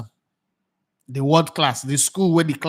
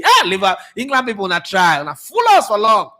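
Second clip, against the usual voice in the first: mock shout; 4 semitones higher, 3 dB louder than usual. Mock shouting at English people.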